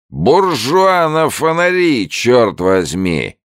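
put-on sing-song drunken shout from the shore; drunk old man bellowing. A narrator's reading. Drunk old man calling from the bank, slow bellow. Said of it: "раздался голос старика с берега".

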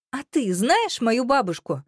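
high, sharp challenge. A narrator's reading. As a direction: cut in, pitching your voice up. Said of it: "повысив голос настолько".

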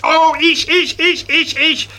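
put-on high, eager child's "ich, ich"; child begging teacher to pick him, eager and high; eager loud calling out. A narrator's reading. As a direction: pupil desperate to be picked. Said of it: "sagt das Fritzchen ganz laut".

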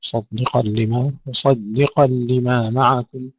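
slow recitation, thin D in مصدقًا; heavy sad and qaf around a light dal in مصدقًا. Shown as a demonstration. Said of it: "ترقيق الدال بين الصاد والقاف مفخمين".

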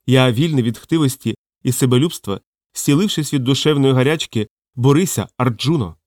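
lofty scripture read distinctly; understated, clearly articulated declaiming; expressive recitation. A narrator's reading. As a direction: recite it with a touch of solemnity. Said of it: "Хтось раптом виразно промовив".

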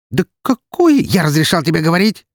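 high, loud barking snap; harsh cutting retort. Acted. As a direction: cut her off sharply. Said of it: "отрезал Роман".

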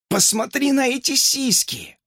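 high falsetto exclamation; hamster's falsetto. A narrator's reading. Hamster gawks at the teacher, excited falsetto. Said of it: "произнёс хомяк всё ещё фальцетом".

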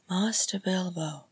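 gentle whisper; hushed and tender; gently. Acted. Arwen coaxing Bilbo, gentle whisper. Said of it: "she said gently".

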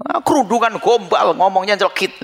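mimicking a resentful onlooker, sneering; angry sneer. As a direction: drag out the scorn like a judgmental neighbour. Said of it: "Lah, ini sudah marah".

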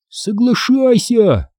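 ordinary delivery

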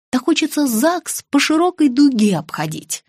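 usual speaking voice

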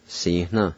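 "Si, na" with the N almost nasalized. Shown as a demonstration. Teacher says it again for learners, "Si, na" with nasalized N. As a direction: let the N in "Si, na" hum lightly through the nose. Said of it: "almost like it's nasalized".

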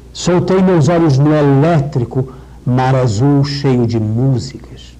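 slow, measured verse reading, opening the E of "pedra"; slow poem reading. Shown as a demonstration. Professor reads the next stanza to show the open E, slow and deliberate. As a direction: savor each line slowly, letting "pedra" open up. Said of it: "Pedra, que aí abre".

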